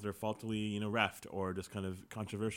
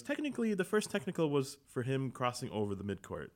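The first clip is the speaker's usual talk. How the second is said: imitating the ref; 5 semitones higher, 3 dB louder than usual. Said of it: "He goes".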